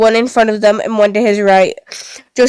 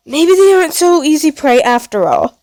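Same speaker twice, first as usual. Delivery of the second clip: chuckling; 6 semitones higher than usual. Acted. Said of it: "Pluto chuckled".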